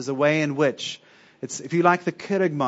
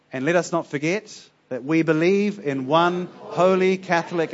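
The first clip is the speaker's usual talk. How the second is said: creed recitation; 3 dB louder than usual. Acted. Congregation reads creed aloud.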